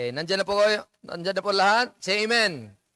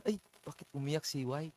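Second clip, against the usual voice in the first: flustered husband imitation; 4 semitones lower, 11 dB quieter than usual. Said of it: "ang husband mo naman".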